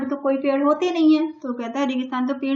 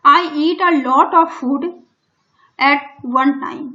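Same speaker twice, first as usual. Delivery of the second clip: very slow, louder, every word spaced out; slow dictation; 4 dB louder, much slower than usual. Shown as a demonstration. Teacher reading the story line to Hindi-speaking pupils, very slow and loud. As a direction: read it word by word for the class. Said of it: "teacher reads English line slowly".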